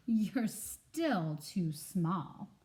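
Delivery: very slow, deliberate put-down; dismissive bear. Acted. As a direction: drag it out like a sleepy bear. Bear again.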